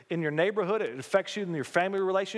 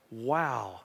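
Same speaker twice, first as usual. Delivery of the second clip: low, soft, slowing wonder; hushed awe; 6 semitones lower, 5 dB quieter than usual. Acted. Believer realizing the church's size, hushed awe. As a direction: let it sink in, trailing into near silence.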